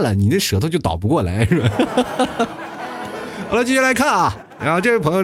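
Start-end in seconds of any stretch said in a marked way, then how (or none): 1.7-3.4 breathy laugh. Real, not acted. Laughing at his own story.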